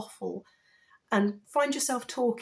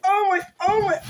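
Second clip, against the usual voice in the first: louder, awed gushing; overwhelmed; 5 semitones higher, 6 dB louder than usual. Real, not acted. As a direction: murmur it overwhelmed with joy. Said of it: "I think I might cry".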